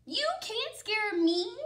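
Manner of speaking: high, loud and defiant. Acted. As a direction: brush off the threat boldly. Old lady defiant.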